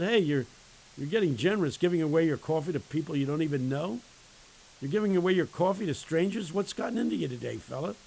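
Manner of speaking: high, loud mock astonishment; incredulous questioning. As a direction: question him loudly in playful disbelief. Preacher acts out quizzing homeless man.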